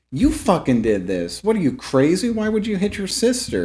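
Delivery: rising, accusing shout-ish voice; mock angry accusation. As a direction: accuse him, pitch climbing. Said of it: "It's like".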